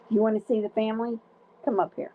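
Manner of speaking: bright sing-song dog talk. Real, not acted. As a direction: coax the puppy with excitement. Talking to the dog.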